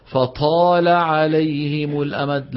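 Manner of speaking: "فطال عليهم الأمد" with a firm unaspirated ta, slow; correct ta. Shown as a demonstration. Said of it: "سمعني". (نطق صحيح للطاء)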